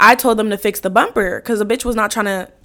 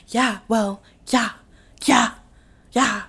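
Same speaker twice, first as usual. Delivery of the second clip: sure of herself; 6 dB quieter, slower than usual. Shown as a demonstration. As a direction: mimic your own know-it-all certainty. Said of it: "when I'm for sure about something, I talk really".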